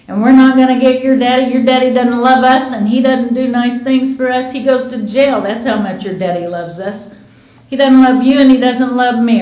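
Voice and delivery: heated retelling of a bitter rant; retold angry scolding. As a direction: vent at him through the kid, half-performed. Mother scolding daughter about daddy.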